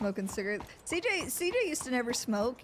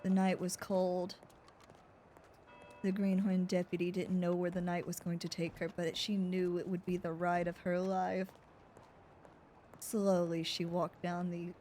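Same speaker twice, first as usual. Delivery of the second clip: noir narration; 4 semitones lower, 4 dB quieter than usual. Acted. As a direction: read it like a film noir opener. Narrates noir detective story.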